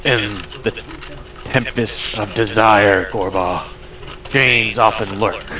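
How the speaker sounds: lightly voiced booming spirit; a hint of a grand storm god proclaiming. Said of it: "You hear a booming voice".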